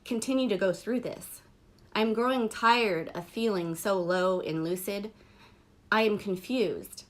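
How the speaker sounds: measured poetry reading, pausing after each line; spoken-verse delivery with falling line endings; poem recitation. Acted. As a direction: read it aloud as a poem, line by line.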